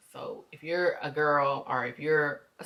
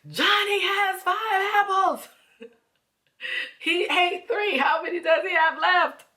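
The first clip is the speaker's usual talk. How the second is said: God as teacher; 6 dB louder than usual. Retold or imitated. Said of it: "God just been like".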